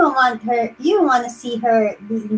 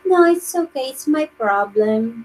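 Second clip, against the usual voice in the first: mock sad girlfriend; 4 dB quieter than usual. Girlfriend playing sad to her boyfriend, mock sad fading to soft. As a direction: act brave, then sink into fake sadness. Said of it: "she would play like".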